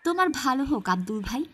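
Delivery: loud, happy thanks to the postman; light up at the news; glad villager. Acted. Rahim thanking the postman for his daughter's letter, glad.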